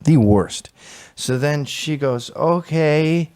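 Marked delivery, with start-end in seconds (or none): 2.4-3.3 underwater junkie. Retold or imitated. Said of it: "talking like they're underwater".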